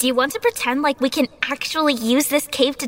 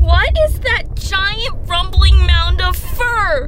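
alarmed; 2 semitones higher, 6 dB louder, slower than usual. Pretend. Pretend mammoth charging at them.

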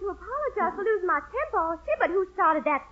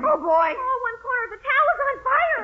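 alarmed; 5 semitones higher than usual. Acted. Towel catches fire in kitchen.

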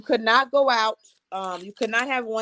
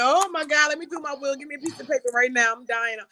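higher, hammed-up panicked rush; mock panic; 6 semitones higher than usual. Patient panicking at the doctor over her diagnosis, mock hysterical. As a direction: play the frantic dying patient, half joking. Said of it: "So I started crying".

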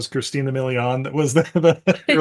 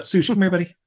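coaxing a dog; 5 semitones higher, faster than usual. Real, not acted. Calling the dog over.

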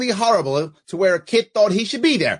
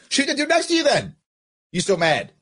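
mocking shout; 5 semitones higher than usual. Real, not acted. Shouting a taunt.

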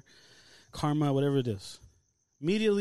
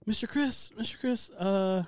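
higher-pitched imitation of a woman calling a colleague; lightly voiced lady calling; 4 semitones higher, slower than usual. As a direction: lightly mimic a hesitant lady caller. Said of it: "some fucking lady calls me".

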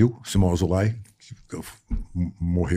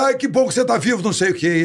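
much higher, overjoyed outburst; relieved joy; 12 semitones higher than usual. Retold or imitated. Actor leaping up overjoyed his friend is alive, much higher. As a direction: burst out in relief.

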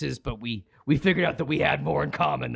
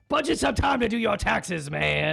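radio sign-off; 5 semitones higher than usual. Acted. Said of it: "sign off every broadcast by going".

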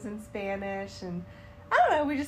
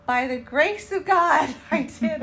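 grateful and proud; 5 semitones higher, 8 dB louder than usual. Retold or imitated. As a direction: declare it with thankful pride. Retold grateful proud answer.

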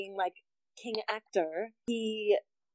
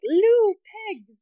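high, loud holler on Lou, falling away; pig call; 12 semitones higher, 7 dB louder than usual. Acted. Swineherd calling his pigs back, hollered pig call.

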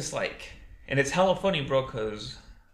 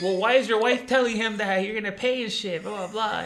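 higher and louder, incredulous; a raised, pressing why; exasperated question; 9 semitones higher, 5 dB louder than usual. Retold or imitated. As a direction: demand it, fed up. Speaker voicing own challenge.

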